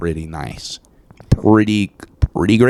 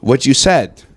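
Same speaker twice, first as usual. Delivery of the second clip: trying not to smile; 6 semitones higher, 3 dB louder, slower than usual. Real, not acted. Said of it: "you can't even keep a straight face".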